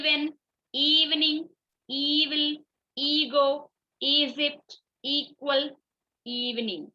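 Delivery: Even, evil, ego with a long "ee" at the start; long E sound. Shown as a demonstration. Teacher reads E-first examples, long "ee" in Egypt and equal. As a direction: lean on the first vowel of each word, held long. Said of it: "ई का long sound".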